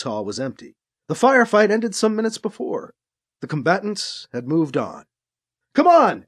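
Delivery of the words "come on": higher, louder call to the group; calling back. A narrator's reading. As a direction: call them forward from up ahead. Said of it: "called back to the others".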